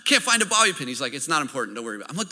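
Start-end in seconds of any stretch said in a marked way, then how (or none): 0.0-0.9 mock frantic. Frantic dad hunting for a pin. 1.1-2.1 calm reassurance. Retold or imitated. Calm 911 operator quoted.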